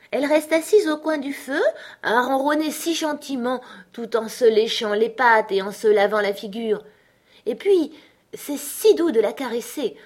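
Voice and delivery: put-on high, fond little-girl chatter; Alice doting. Alice describes Dinah by the fire, high fond reverie. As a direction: gush about a beloved pet in a high voice. Alice rhapsodises about her cat.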